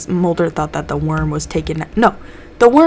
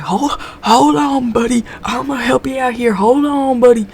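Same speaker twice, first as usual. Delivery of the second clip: calming doctor; 7 semitones higher, 3 dB louder than usual. Retold or imitated. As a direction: talk him down gently like a medic. Doctor calms the infected pilot.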